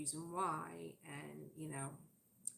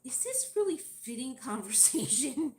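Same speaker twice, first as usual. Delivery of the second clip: husband's dry aside; 7 semitones higher, 8 dB louder than usual. Retold or imitated. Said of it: "he'll always say to me".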